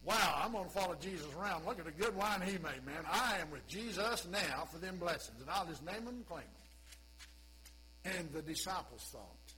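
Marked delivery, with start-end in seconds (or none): 0.0-8.1 excited crowd voice; a follower chasing blessings; eager follower. Pretend. A crowd member gushing about Jesus, lightly eager. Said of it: "The people's thought".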